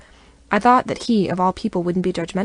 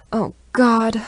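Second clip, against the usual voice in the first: a groaning "Oh, God", a little louder; 4 semitones higher, 6 dB louder than usual. A narrator's reading. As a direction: groan it out in dismay. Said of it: "Riley groans".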